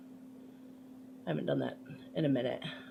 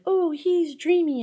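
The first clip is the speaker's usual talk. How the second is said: higher, louder, slow dreamy swoon; swooning girl; 12 semitones higher, 8 dB louder, slower than usual. Retold or imitated. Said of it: "the girl's like".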